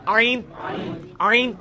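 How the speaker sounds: आइन squeezed from the middle of the throat; आइन, pharyngeal ain sound; throat ain demo. Shown as a demonstration. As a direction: say आइन with a tight throat catch. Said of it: "उधर ही से ये आइन भी निकलना है".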